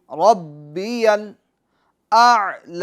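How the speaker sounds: ربی الاعلی with the hamza first, then the ain sounded clearly; careful Arabic recitation. Shown as a demonstration. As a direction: stretch ربی الاعلی slowly, voicing each letter. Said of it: "پہلے حمزہ، پھر عین".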